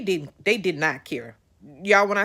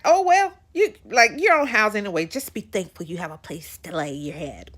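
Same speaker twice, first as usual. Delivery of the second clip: mock nonchalant. Mimicking housing staff brushing off her complaint, mock nonchalant. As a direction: toss it off like you couldn't care less. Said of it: "I just saw how nonchalant they were".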